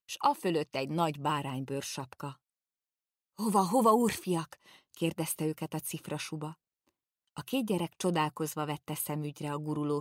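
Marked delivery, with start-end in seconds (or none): 3.3-4.6 put-on higher, louder hail of a gruff old servant; old servant calling out. A narrator's reading. Old Pipitér hails the two boys, a loud high greeting. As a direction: call out to them from under the fur coat.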